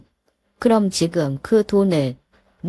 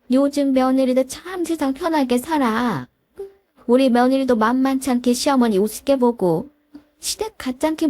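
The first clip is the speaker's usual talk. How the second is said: a lightly voiced stern mother-in-law, a touch higher; 시어머니 목소리; 5 semitones higher than usual. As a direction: scold the daughter-in-law with cold authority. (살짝 높인 깐깐한 시어머니 목소리)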